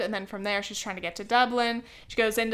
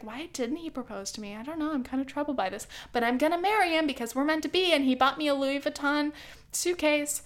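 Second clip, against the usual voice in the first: higher-pitched mock heroine, thinking aloud; mock-troubled rom-com heroine; fretful musing; 4 semitones higher than usual. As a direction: imitate a lovesick girlfriend talking herself round. Retells heroine musing about her boyfriend.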